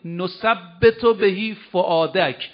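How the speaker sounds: slow Quran recitation. Acted. Verse recited again.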